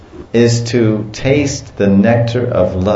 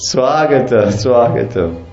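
laughing mock welcome; 3 semitones higher than usual. Laughing imitation of Krishna.

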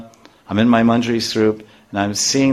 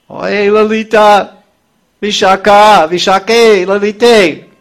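much higher, loud call to friends; high ringing call for Lalita and Vishaka; 10 semitones higher, 7 dB louder, slower than usual. Acted. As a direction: call them across the grove, desperate. Radharani runs calling her friends.

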